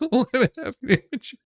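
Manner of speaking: fast words through laughter; laughing and hurried. Real, not acted. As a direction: talk through the giggles. Laughing while talking.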